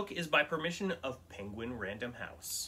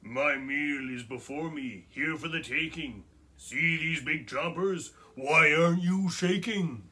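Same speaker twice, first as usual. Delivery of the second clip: scratchy, louder menacing troll; 2 semitones higher, 6 dB louder than usual. Acted. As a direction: growl the threat scratchily. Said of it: "in her scritch-, scratchy Voz".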